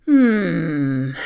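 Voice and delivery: low growling hmm; growled hmm. Acted. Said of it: "she growled".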